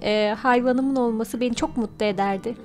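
usual speaking voice

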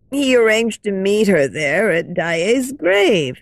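a lightly voiced kindly old lady, hushed; gentle old lady sharing a secret; old woman.

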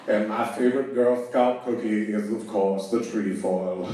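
Morgan Freeman impression. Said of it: "Morgan Freeman".

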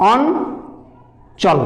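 অঞ্চল drawn out very slowly so its syllables can be heard; very slow, spelled-out অঞ্চল in a teacher's demo; stretched out slowly. Shown as a demonstration. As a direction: pull অঞ্চল apart slowly for the class. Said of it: "ভাঙা যাবে".

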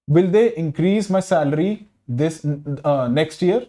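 increase read slowly as the verb, CREASE stressed; slow example, lean on CREASE in increase. Shown as a demonstration. Teacher reading the verb example, increase stressed on CREASE. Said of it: "हम ज्यादा stress डालेंगे क्रीज पे".

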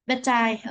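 "But I" joined as "bu-tai"; linking demo, no gap in "But I"; linked sounds. Shown as a demonstration. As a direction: carry the t of "But" into "I". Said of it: "những cái nối âm như sau".

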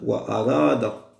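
ordinary talk, nothing marked

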